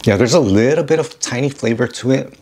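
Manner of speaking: speaking between bites; talking while chewing. Real, not acted. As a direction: mouth partly full of food. Seen 2: Tasted tuna just before; lips pressed, jaw working between spoken words.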